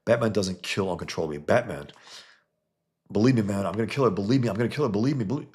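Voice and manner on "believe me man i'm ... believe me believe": a louder, rising hammed-up threat; mock tough-guy boast. Batman brags he will kill her, in a hammed-up tough voice. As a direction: puff it up like a bragging killer.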